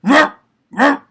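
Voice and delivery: very high, loud barking roar; dog bark. Shown as a demonstration. Imitating a dog to teach the roar, high barking roar. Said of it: "you think I have a dog barks".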